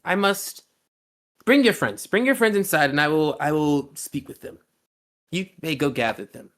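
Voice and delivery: fire host. Acted. Fiery host asking the party inside, high courtly voice. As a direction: invite them in like a courtly lord.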